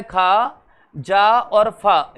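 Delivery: खा, जा और फा with nukta, slow and careful; nukta sounds. Shown as a demonstration. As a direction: spell out the nukta consonants slowly. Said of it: "नुक्ता वाले व्यंजन". (नुक्ता वाले व्यंजन धीरे साफ बोलना)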